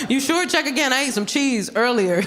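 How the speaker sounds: high, incredulous mock denial; mock disbelief. To the doctor about the foot: high mock disbelief. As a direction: sound stunned at the news. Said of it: "I was like".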